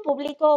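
"publicó" said as puBLIco, stress on BLI; stress on middle syllable. Shown as a demonstration. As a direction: move the accent to the middle: publico. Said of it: "conocer los acentos".

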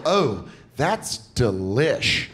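slow, low ditzy drawl; valley girl voice. Retold or imitated. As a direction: drag out the slang lazily. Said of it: "I heard a girl once go".

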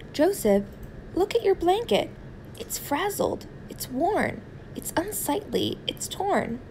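high-pitched fussy mother voice; a mother fussing over a worn-out blanket; scolding mother. Acted.

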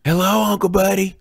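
put-on high, sing-out child's call; high-pitched hello, only mildly loud; yelled greeting. A narrator's reading. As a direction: call out to your uncle in passing. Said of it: "running across the grass yelling".

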